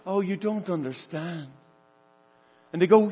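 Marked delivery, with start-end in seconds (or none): 0.1-1.5 gentle. Acted. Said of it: "And he gently says".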